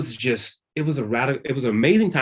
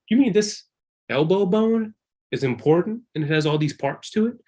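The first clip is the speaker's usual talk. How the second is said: amazed discovery; 7 semitones higher than usual. Retold or imitated.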